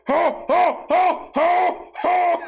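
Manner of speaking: high shouted ho ho ho hoots of pain; loud, high, repeated pained hoots; burnt hand noise. Retold or imitated. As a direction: yelp over and over like a scalded hand. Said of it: "That's my burnt hand noise".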